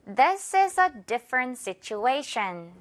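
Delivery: This is a different situation, slow, A in situation stressed; slow model sentence. Shown as a demonstration. Teacher modelling the sentence for repetition, slow. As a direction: read it slowly with the stress. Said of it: "A 부분에 강하게 갑니다".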